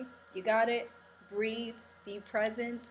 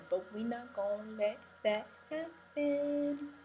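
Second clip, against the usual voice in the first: playful defiance; 3 semitones higher than usual. Real, not acted. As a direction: stretch the words out teasingly, rising at the end. Playful defiance after a warning.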